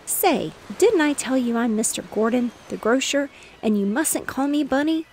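mild loud complaint; cried out. Acted. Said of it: "cried the little boy".

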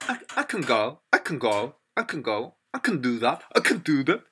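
"can" shrunk to a quick "kn", verb stressed; low, casual "can" swallowed to "kn"; reduced can. Shown as a demonstration. Teacher showing the positive form, weak "can" before the verb. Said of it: "이렇게 얘기를 해요".

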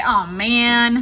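drawn-out "aw, man" with a mild groan; mock disappointment. Shown as a demonstration. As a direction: model a playful letdown for the class. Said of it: "If you got it wrong, say".

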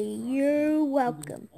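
drawn-out, pointed you're welcome; slow deliberate you're welcome. Shown as a demonstration. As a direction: say it slowly, making a point. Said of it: "I can say".

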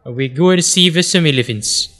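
put-on a loose, slowed South African accent; a lightly done South African accent. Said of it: "now you're in South Africa".

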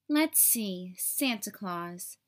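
lightly voiced kind librarian; friendly librarian. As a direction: think aloud warmly while searching. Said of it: "said the friendly librarian".

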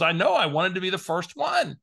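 Barbara's voice. Retold or imitated. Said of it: "I'm gonna have to use Barbara's voice for effect".

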